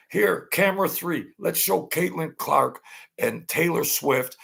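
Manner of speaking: high, bossy director calling shots; high mock director cue. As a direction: bark orders like a TV director. Imitating the TV director.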